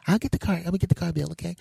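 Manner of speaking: high, hurried female voice; high-pitched woman talking to her husband; wife. Acted.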